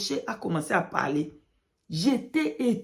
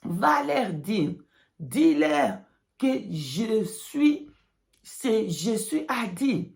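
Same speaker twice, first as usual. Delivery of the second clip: slow, deliberate prophetic declaration; slow prophetic proclamation; 2 semitones higher, slower than usual. Pretend. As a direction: pronounce it slowly as prophecy. God's message quoted.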